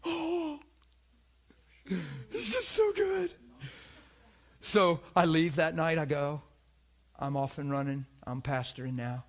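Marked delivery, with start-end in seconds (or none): 0.0-3.3 high, slow, thrilled exclamation; delighted. Real, not acted. Preacher overjoyed telling the congregation. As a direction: savour it with delight.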